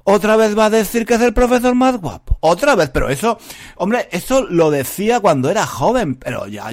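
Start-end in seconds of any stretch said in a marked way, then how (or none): 0.1-2.9 fed-up listener. Retold or imitated. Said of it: "estarás diciendo".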